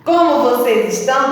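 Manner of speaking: put-on high, loud cheery greeting to kids; bright squeaky sing-song welcome. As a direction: sing out a big hello to children. Teacher greets children on video. (saudação alegre e cantada)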